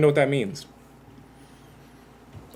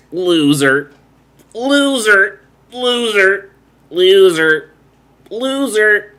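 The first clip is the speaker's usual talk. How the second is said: loud, high drawn-out creature call; booming underwater call; king jellyfish call; 8 semitones higher, 6 dB louder, much slower than usual. Retold or imitated. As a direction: bellow it like a sea monster summons. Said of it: "It goes".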